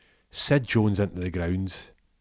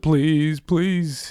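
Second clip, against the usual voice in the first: much higher and louder pleading; desperate begging; 9 semitones higher, 7 dB louder than usual. Acted. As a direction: beg for mercy. Arjaf begging.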